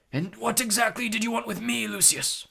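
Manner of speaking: high-pitched, polite wizard's voice; polite Dumbledore. A narrator's reading. Dumbledore questions Malfoy with blazing eyes, polite. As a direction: question courteously with steel beneath. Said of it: "He spoke politely".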